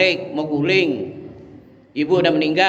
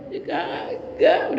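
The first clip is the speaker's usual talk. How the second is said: whispered no; 12 semitones higher, much slower than usual. Acted. Whispered denial.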